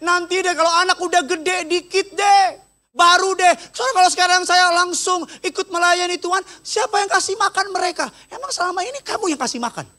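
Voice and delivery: high, pleading voice of someone making excuses; mock whining plea to the pastor; mimicked excuse-maker. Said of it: "Jangan ngomong gini sama saya".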